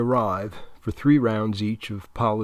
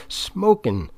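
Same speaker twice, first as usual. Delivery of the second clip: echo; 8 semitones higher than usual. A narrator's reading. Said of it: "the other Tarleton twin echoes".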